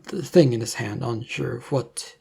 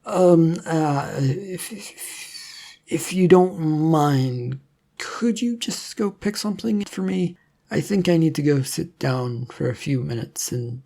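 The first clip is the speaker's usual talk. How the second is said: put-on flustered young man; 3 semitones higher than usual. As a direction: stumble over the words, a little overwhelmed. Leonardo overwhelmed and hungry.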